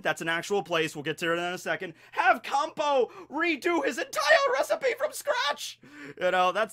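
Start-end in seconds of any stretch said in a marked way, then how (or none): 2.1-5.8 high, slow, whiny critic voice; snooty food critic. Pretend. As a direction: sneer it like a snobby gourmet. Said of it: "that's how I imagine it is".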